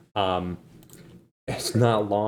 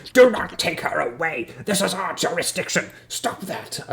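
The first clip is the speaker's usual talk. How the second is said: commanding guard; 7 semitones higher than usual. Acted. Guard stops others taking the prisoner away, urgent command. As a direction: call out with indignant authority.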